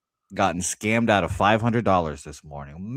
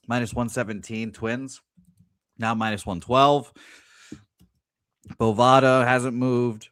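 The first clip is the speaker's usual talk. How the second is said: talking through hiccups; 2 semitones higher than usual. Real, not acted. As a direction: odds read with hiccups interrupting. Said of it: "I've got the hiccups now".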